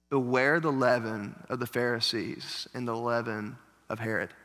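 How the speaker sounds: soft, low, hushed warning; quiet warning. Retold or imitated. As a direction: drop your voice and warn them gently. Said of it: "And Jesus is like".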